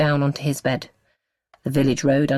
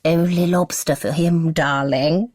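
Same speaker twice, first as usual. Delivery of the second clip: mock posh accent; 4 semitones higher, 3 dB louder, slower than usual. A narrator's reading. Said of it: "attempting her own posh accent".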